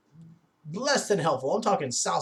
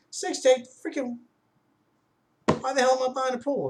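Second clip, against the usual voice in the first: higher, retold disbelief at the delay; exasperated; 10 semitones higher, 3 dB louder than usual. Buyer balks at the installation wait, pitched-up exasperation. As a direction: throw up your hands at the six-to-eight-week wait.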